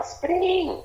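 very high, urgent mock cry; retold call to run. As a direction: re-enact calling out to dad to flee. Retelling urging dad to run.

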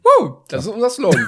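whooping party cheer, high; rowdy party animal. Pretend. Partyjubel, hoch und laut. (grölender Partyjubel)

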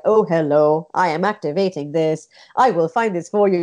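stiff, mechanical assistant voice; stilted robotic voice. Shown as a demonstration. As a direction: sound like a wooden robot reading lines. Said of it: "those kind of very stilted robotic voices".

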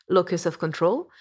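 showy English accent, hammed up a little. Shown as a demonstration. Podcaster showing listeners the original English term, English accent. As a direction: put on a "magnifique" English accent. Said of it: "je vous le fais avec mon accent magnifique".

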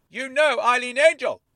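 high excited squeak. Acted. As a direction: squeal it out in surprise. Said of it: "Dennis squeaked".

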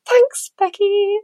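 squeaky, slow, moved thank-you; high touched thanks. Real, not acted. Thanking a listener for her kind email, high and slow.

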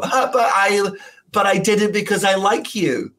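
high mock fan defending himself; mocking American fan. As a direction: mimic a clueless fan. Mimicking whooping American fan.

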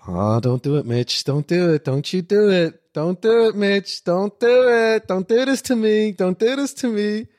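flehend, immer lauter und höher; beschwörend, am Ende laut und langsam; pleading, building to a shout. Retold or imitated. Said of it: "sag ich so". (flehender Ruf, immer lauter)

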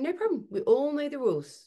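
high, light and unbothered; breezily calm parent; cheerful no-drama parent voice; calm breezy parent. Retold or imitated. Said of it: "You're going".

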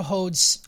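"holds" with the L dropped, like "hodes"; odd pronunciation. Real, not acted. Host tripping on a word in the recap, "holds" without its L. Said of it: "Why did I say it like that?".

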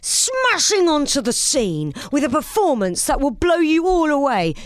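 dramatic trailer announcer, lightly done; nineties movie trailer voice. Pretend. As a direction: sell it like a nineties film trailer. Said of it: "Welcome to my nineties trailer voice".

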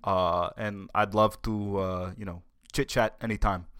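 lightly voiced senator, stammering eagerly; eager, stumbling put-on politician voice; Bernie. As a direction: accept the invitation in a halting politician impression.

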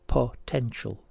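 "potential" split into full separate syllables. Shown as a demonstration. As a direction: give "potential" part by part, first O full. Puzzle answer shown by syllables.

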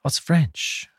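sudden high "oh" of discovery; surprised realisation. Real, not acted. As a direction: catch on to it all at once. Reacts to the French origin.

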